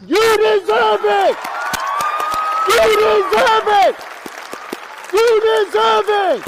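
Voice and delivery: shouted cheer, repeated; crowd cheer. Real, not acted. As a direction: chant it from the audience.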